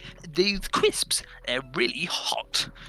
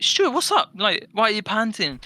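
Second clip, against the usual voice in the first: mock concern; 8 semitones higher, 3 dB louder than usual. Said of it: "we'd be like".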